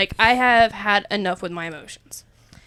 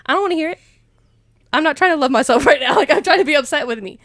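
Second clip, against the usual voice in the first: mock stubborn protest; 5 semitones higher, 8 dB louder, faster than usual. Retold stubborn refusal.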